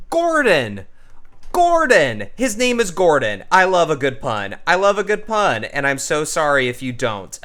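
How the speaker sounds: high, loud, delighted exclamations; real excited outburst. Real, not acted. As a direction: call it out, thrilled by your own pun. Delighted at finding a pun name.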